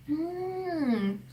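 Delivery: imitated thoughtful hmm, drawn out; pondering hum. Foreign friend thinking over the puzzle, pondering hum. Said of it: "이렇게 말을 하더라고요".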